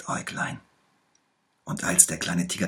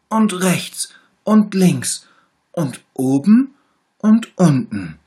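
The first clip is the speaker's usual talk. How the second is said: high, louder, whining little tiger listing every ache; sick little tiger; 11 semitones higher, 12 dB louder than usual. A narrator's reading. Little tiger lists all his aches to the bear, high and whiny. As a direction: pile up the complaints, higher and louder. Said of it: "sagte der kleine Tiger".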